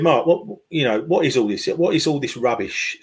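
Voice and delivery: a hint of a Danish man's accent. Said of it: "in a thick Danish accent".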